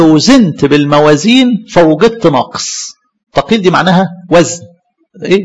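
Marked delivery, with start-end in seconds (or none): 0.0-3.0 slow, measured verse; solemn scripture reading. Retold or imitated. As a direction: lay out the judgement slowly. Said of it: "قال له".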